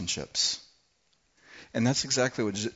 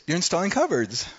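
cheerful wife; 5 semitones higher than usual. Retold or imitated. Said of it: "with a smile on her face".

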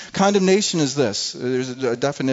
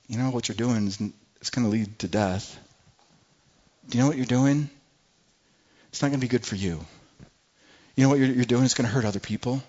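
a gentle Holy Spirit voice; gentle conviction; 4 semitones lower, faster than usual. Retold or imitated. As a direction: caution them kindly, like a friend. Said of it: "It's a gentle voice".

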